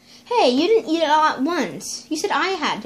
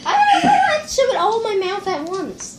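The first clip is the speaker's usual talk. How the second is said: laughing; 6 semitones higher than usual. Real, not acted. Complaining laughing with mouth full.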